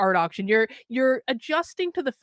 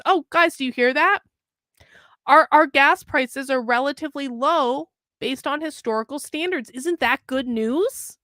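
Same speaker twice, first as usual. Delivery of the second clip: sarcastic. Acted. Mocking the article's claim.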